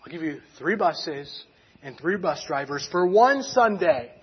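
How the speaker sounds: slow, measured grudging consent; mildly grudging retold concession. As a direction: give in reluctantly, spacing out the terms. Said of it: "maybe a little bit grudgingly".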